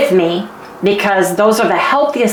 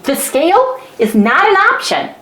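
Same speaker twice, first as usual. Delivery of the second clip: higher, lightly laughing husband voice; husband's voice; 6 semitones higher than usual. Retold or imitated. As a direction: playfully mimic the husband laying down the law. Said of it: "And he goes".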